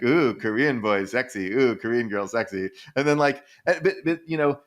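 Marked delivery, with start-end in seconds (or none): 0.0-2.7 mock swooning. Young Japanese swooning over Korean dates, mock swoon. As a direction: ham up a lovestruck fan.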